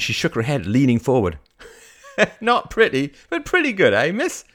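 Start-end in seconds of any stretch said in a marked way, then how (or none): 2.2-4.4 high, loud, amused teasing; chuckle, then tease her merrily; laughing old vendor. Acted. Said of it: "laughed the man".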